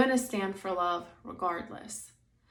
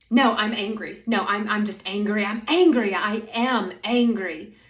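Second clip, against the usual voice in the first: louder, insistent imitation of someone clinging to anger; mock stubborn anger; 6 dB louder than usual. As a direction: stamp your foot, half-playful angry insistence. Acting out her stubborn angry self.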